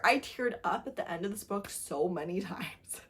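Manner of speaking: hushed admission; whisper. Real, not acted. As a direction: whisper it like a secret. Confessing she cried at the book.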